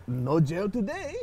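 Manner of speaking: slow, drawn-out mock dad; lightly acted dad, stretching the words; mock playful dad. Dad taunting his kid over the punishment, mock playful. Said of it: "my dad was creative. He goes".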